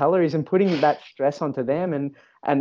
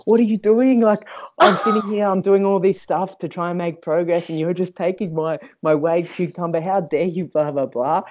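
retold angry outburst, pitched way up; snapping; 6 semitones higher than usual. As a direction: bark it out, outraged. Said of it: "I turned around and I snapped".

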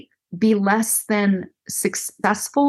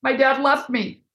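lightly voiced, higher hurting woman; a hint of a despairing survivor, a little higher; voicing the hurting woman; 6 semitones higher than usual. Counselor plays a survivor for Sean, lightly voiced despair. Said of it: "that she would have said".

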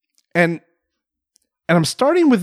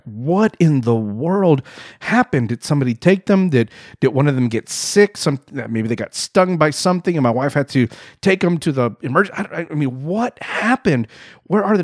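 retold freaking out. Dad finding his family gone from the beach, retold freaking out. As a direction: replay a mild, bewildered freak-out. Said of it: "And I'm freaking out".

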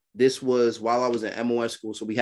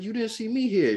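high, breathy-free sing-song wife voice; high girly voice; 11 semitones higher than usual.

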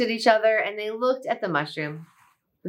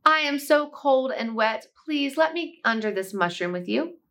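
little mouse voice; 5 semitones higher than usual. Acted. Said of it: "a little mouse came scampering up and said".

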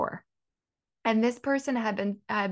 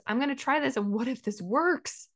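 confident; 4 semitones higher than usual. Retold or imitated. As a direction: voice the hopeful self, lifted and sure. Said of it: "My energy is".

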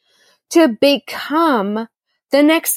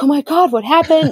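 retold panic; 3 semitones higher than usual. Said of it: "I'm freaking out".

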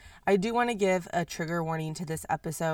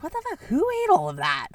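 much higher shocked exclamation; 9 semitones higher, 6 dB louder, faster than usual. Retold or imitated. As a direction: stare at the empty bag in disbelief. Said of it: "And you're like".

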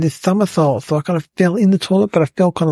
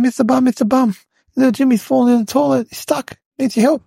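put-on higher and fast, a kid panicking for help; urgent call for help; 8 semitones higher, faster than usual. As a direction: blurt it out breathlessly to the teacher. Simon runs for help at school.

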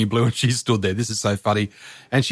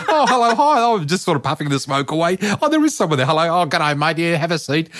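much higher, peering through smoke; mock startled greetings; 5 semitones higher than usual. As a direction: greet the silhouettes with comic surprise.

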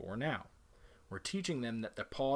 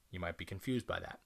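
whisper; 5 semitones lower, 6 dB quieter than usual. Real, not acted. Aside to viewers.

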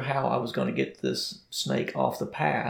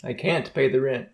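melodrama damsel; 6 dB louder than usual. Pretend. Answering in melodrama skit.

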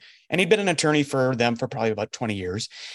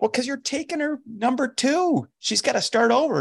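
incredulous retort; 10 semitones higher than usual. Retold or imitated. Retold dinner chat with John.

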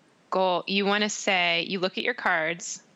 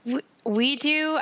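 whispering; 7 semitones higher, slower than usual. Real, not acted. Whispered reply.

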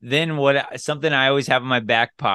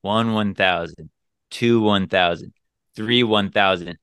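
slow counting; 4 semitones lower than usual. Shown as a demonstration. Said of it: "count to ten one thousand in your mind".

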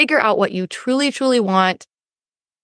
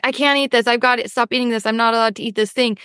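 strict inner voice; 2 semitones higher, faster than usual. Acted. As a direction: rush through a mock inner ban. Acting out strict inner restriction.

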